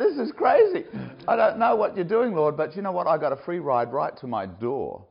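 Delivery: high, loud, laughing retold prayer; amused thanks to the Lord; laughing disbelief. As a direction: laugh through it in wonder. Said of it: "I'm just like".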